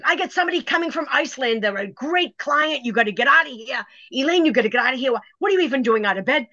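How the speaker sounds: high, fast, agitated scolding; retold yelling. Friend shooing her out in a high fast rush. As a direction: rush her out the door in a panic. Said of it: "she just came out yelling".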